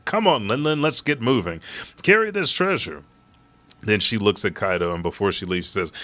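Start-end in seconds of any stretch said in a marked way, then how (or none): 0.0-3.0 Strusson urging. Retold or imitated. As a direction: pitch up and urge her to get moving. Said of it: "And then Strusson says".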